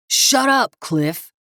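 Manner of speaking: high, loud yell. Acted. Kevin yelling at his partner to shut up. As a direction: bark him down. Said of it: "Kevin yelled".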